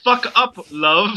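put-on light Irish accent, tender murmur. Joyce murmuring to Nora in a mild Irish accent. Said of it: "My Irish accent is going away".

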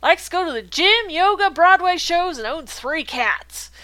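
put-on voice. Reads Dale's profile in character.

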